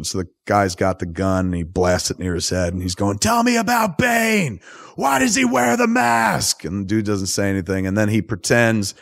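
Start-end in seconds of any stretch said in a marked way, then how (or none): 3.2-6.6 higher, slow, pressing interrogator voice; a CIA agent grilling a hooded prisoner on a plane, higher and slow; interrogating agent. Retold or imitated. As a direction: lean in slowly on the prisoner.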